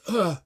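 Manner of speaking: groan. Acted. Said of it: "And Drova goes".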